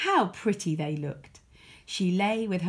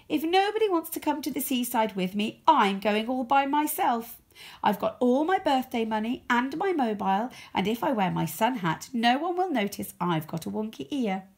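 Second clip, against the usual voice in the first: defiant; 5 semitones higher, 3 dB louder than usual. Acted. Rosie defiant on the phone.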